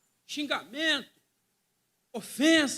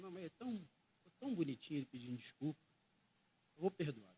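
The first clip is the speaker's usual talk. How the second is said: tender mock Jesus; 6 semitones lower, 10 dB quieter, faster than usual.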